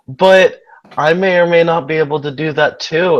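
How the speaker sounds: Lucy. Acted. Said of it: "She's like".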